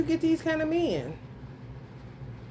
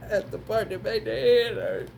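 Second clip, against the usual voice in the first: words half-swallowed by laughing; laughing while talking; 3 semitones lower than usual. Real, not acted. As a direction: say it through laughter. Laughing through the line.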